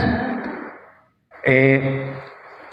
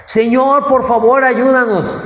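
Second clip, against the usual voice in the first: high, desperate plea for help; pleading cry; 7 semitones higher than usual. Retold or imitated. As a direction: beg him to save you. Disciples begging in storm. (discípulos suplicando con voz alta y angustiada)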